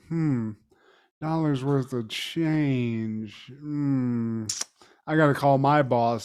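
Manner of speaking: low, soft, dazed clerk voice; a sleepy stoned store clerk, mumbled low; comatose clerk. Retold or imitated. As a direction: play the clerk half asleep and lost. Clerk again, dazed and slow.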